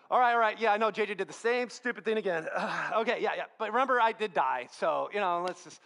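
mock-weary, exasperated concession with a sigh; put-upon defender losing patience; frustrated. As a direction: sigh and grudgingly cover for a repeat offender. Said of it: "Jesus was just getting more and more frustrated".

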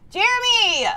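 very loud, stretched-out exclamation; high, loud delighted outburst; excited shout. Real, not acted. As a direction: shout it out, thrilled and amazed. Reacting to a big gift.

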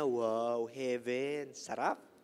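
low, soft contented sigh of pleasure; blissful Jonah. Acted. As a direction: savour it like lying in cool shade. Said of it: "Sabi niya".

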